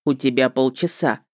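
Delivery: слегка озвученный ведьмак, пониже; намёк на низкий мужской голос ведьмака. A narrator's reading. Ведьмак ставит срок. (голос ведьмака)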